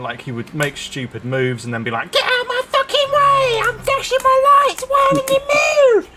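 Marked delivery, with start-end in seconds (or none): 2.1-6.1 put-on high, shouting German accent; mock angry German driver, loud. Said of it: "But, like, in a German accent".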